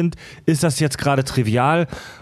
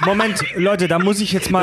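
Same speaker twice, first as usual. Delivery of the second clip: laughing; 5 semitones higher than usual. Real, not acted. Laughing interruption.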